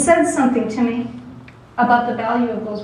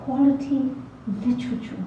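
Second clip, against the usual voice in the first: impatient pseudo-British; 3 semitones higher than usual. Acted. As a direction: lecture with lightly faked British impatience. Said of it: "staring at the student in impatience".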